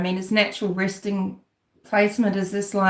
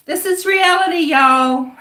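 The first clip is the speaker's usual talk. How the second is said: much higher, louder mimicking voice; emphatic woman impression; 10 semitones higher, 6 dB louder than usual. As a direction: mimic her emphatic proclamation. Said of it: "someone who was just as emphatic".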